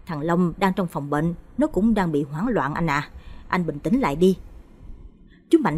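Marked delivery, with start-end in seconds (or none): 0.1-4.4 calm reply. Acted. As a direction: soothe your brother gently. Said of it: "Chú Trường đáp". (em trai nhẹ nhàng trấn an anh)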